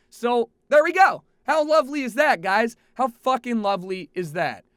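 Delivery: sarcastic. Real, not acted. Sarcastic wrap-up of airport mess.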